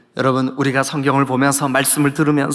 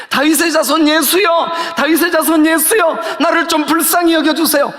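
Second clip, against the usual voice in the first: high, urgent repeated plea; imitating a beggar who keeps calling out; acted crying out; 6 dB louder than usual. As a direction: plead insistently in a raised pitch. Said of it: "소리 질러도".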